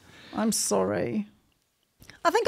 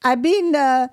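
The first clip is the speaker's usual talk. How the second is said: put-on Mexican accent; slower than usual. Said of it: "how do Mexicans speak".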